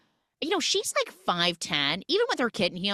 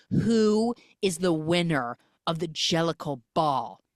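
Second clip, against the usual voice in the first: grand villain demanding victory, rising higher; Idris Elba cat; 3 semitones higher than usual. Retold or imitated. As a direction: proclaim it pompously, building to a high finish. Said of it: "He's like".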